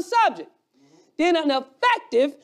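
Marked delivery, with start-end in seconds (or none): 1.2-2.4 "affective" in a Southern Alabama accent. Real, not acted. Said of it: "see my Alabama accent".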